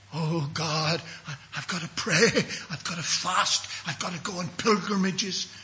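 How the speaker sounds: softly imitated earnest pleading; a worried believer listing duties; mock pious striving. Imitates people striving to earn salvation.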